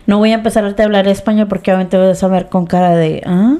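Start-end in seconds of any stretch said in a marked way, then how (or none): none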